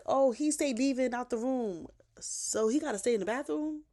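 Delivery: high, loud mock protest; mocking excuse. Mother excusing herself for tying up her son, mock-defensive. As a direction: whine out the excuse, imitating her.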